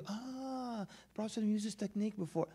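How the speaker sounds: high, soft, knowing mock voice; mock smug claim. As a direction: mimic a smug latecomer claim. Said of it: "So they develop the field".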